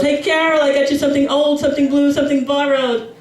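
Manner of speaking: a hint of a cheery old aunt; old aunt yelling. Aunt Ida calling to the bride, lightly voiced mock yell. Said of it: "Aunt Ida yells".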